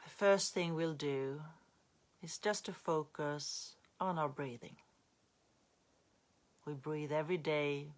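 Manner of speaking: unhurried guiding voice with long pauses; calm meditation teacher, phrase by phrase; guided meditation. Real, not acted. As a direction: ease listeners gently into breath awareness.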